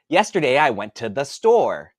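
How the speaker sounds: each word carefully over-pronounced; over-articulate like a child correcting their speech; over-exaggerated words. Shown as a demonstration. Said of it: "I had to over-exaggerate my words".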